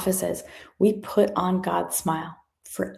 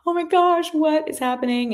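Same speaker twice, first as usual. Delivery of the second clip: much higher, astonished exclaim; shocked; 9 semitones higher than usual. Retold or imitated. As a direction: gasp it out high in disbelief. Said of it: "It's like".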